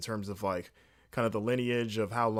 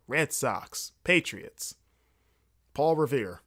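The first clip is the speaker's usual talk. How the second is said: attempted Boston accent on local names; slower than usual. Shown as a demonstration. Host rattling off local names to practise, Boston accent. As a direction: list local icons in a put-on Boston accent. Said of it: "Boston accent".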